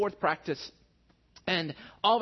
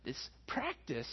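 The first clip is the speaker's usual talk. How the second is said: higher, pleading complaint at the rain; exasperated griping at the rain, higher pitched; frustrated; 5 semitones higher than usual. Retold or imitated. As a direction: whine to the sky, fed up and exasperated. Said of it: "I'm just finding myself getting frustrated".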